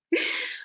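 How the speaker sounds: brief real chuckle before going on; quick amused laugh; short laugh. Real, not acted. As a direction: let a small laugh slip out. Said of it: "you know why I'm laughing".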